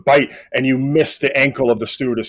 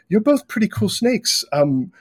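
put-on higher, shy boy voice; a lonely kid confessing; a lightly voiced shy boy; 4 semitones higher than usual.

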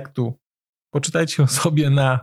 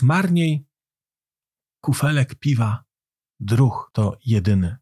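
measured verse, pausing after each line; poem recitation. A narrator's reading.

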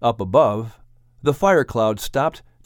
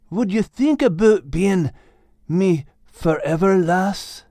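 a touch higher, earnest Scottish dog; hopeful, heartfelt question to his lass; Max proposing; 5 semitones higher than usual. Acted. Max asking Kate to be his forever, earnest hopeful voice.

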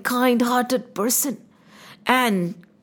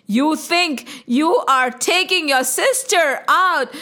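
divine voice; 3 semitones higher than usual. Acted. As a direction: taunt Kans from the sky. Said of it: "there was a voice said".

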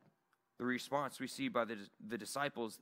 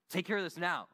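higher, louder insistent order; exasperated demand; 5 semitones higher, 4 dB louder than usual. Retold or imitated. Pastor finally loses patience with Joey, louder insistent demand. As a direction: lean on it, done waiting. Frustrated radio call to Joey.

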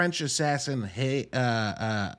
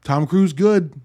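louder, punchy one-word verdicts; loud verdict quote; 5 semitones higher, 6 dB louder, slower than usual. Retold or imitated. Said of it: "I walked out of that movie and was like".

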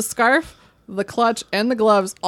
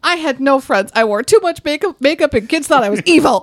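higher put-on voice ending on evil; Montana impression; 5 semitones higher, 4 dB louder than usual. Actress telling David of friendless youth, villainous finish. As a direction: confess it, putting menace on EVIL. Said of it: "she does the evil part with her voice".

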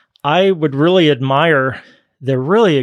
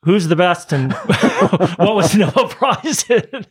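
high, laughing mock doubt; imitating a never-satisfied perfectionist, amused; mock unimpressed huh; 5 semitones higher, slower than usual. Mock perfectionist asking about rivals.

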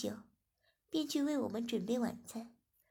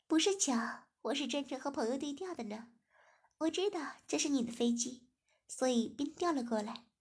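laughing; 3 semitones higher than usual. Acted. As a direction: tease him with a giggle. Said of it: "子莹笑着说". (笑着慢慢说)

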